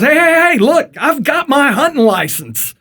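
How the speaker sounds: high-pitched, excited hunter; head off the warden with proud news; hammed-up eager announcement; eager boasting.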